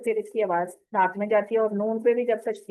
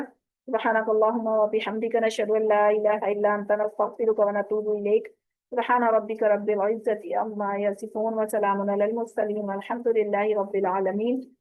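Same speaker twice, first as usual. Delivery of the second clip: closing prayer. Real, not acted.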